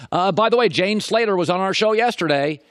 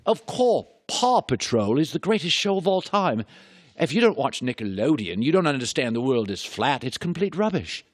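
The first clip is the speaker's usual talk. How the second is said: put-on British accent; 2 semitones lower than usual. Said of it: "you can say anything with a British accent".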